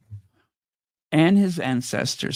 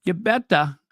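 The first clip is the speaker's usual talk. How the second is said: a weak, half-hearted Scottish accent on "You better"; bad Scottish accent; 4 semitones higher than usual. Shown as a demonstration. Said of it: "I do the worst Scottish accent".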